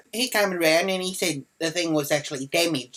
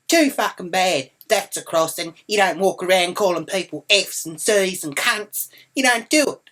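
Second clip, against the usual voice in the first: higher, loud telling-off; retold angry scolding; 4 semitones higher, 5 dB louder than usual. Scolding the driver on the crossing, angry telling-off. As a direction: lay down the law, pitched up.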